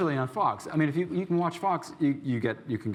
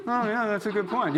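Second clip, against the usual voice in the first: lulled agreement; 8 semitones higher than usual. Retold or imitated. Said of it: "getting lulled into".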